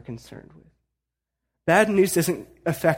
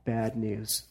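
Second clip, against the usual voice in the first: mock panic; 5 semitones lower, 5 dB quieter, slower than usual. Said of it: "disciples are freaking out".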